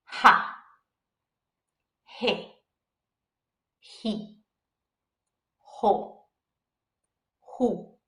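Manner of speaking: "Ha, he, hi, ho, hu" one by one with a breathed English H; isolated syllables, each opening on an H sound. Shown as a demonstration. Teacher drills the Spanish J syllables, J as English H. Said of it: "sounds like the H in English".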